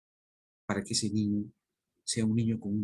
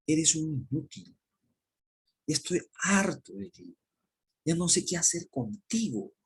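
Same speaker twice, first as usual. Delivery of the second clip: scolding dad; 2 semitones higher than usual. Retold or imitated. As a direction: play the fed-up father tearing into his child. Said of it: "yo como papá, a mi hijo, le digo".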